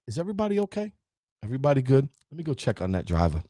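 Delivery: composed, caring driver; calm concern. Acted. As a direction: gently make sure everyone is safe. Imagined calm response after crash.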